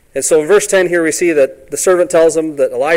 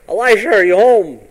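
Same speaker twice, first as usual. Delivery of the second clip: calling out; 6 semitones higher, 6 dB louder than usual. Acted. Naaman calling at the door.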